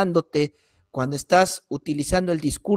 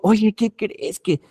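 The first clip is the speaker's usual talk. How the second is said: retold apology. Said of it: "me acerco con esta persona y le digo".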